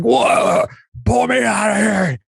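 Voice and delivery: high, far mock-panicked yell; hammed-up Farley panic; Farley falling through the ice. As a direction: bellow it as Farley in the ice hole. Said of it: "he's like".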